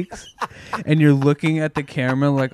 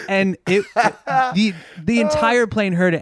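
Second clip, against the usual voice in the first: laughing; 5 semitones higher than usual. Real, not acted. Laughing while retelling fart.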